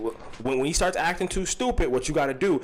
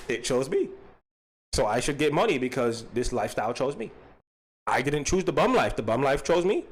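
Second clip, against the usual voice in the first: put-on halting foreign child voice with rising endings; foreign little kid; 2 semitones lower than usual. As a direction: play a stubborn foreign kid in broken English. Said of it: "but as a foreign little kid".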